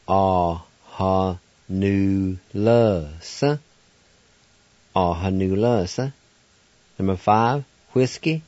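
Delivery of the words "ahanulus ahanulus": Ahanulus said whole, ah-ha-NU-lus; Cherokee word. Shown as a demonstration. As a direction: run Ahanulus together smoothly.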